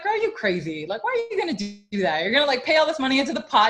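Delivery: high, fast sassy mock disbelief. Telling friend Jen her plan is crazy, sassy disbelief. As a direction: tease her friend like she's lost it. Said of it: "And I was like".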